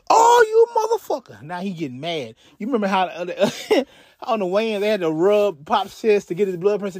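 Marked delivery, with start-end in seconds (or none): 0.1-1.4 high, loud mock yell of rage; furious outburst. A rival yelling after being dissed, in a hammed-up furious yell. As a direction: blurt it out like he's been insulted.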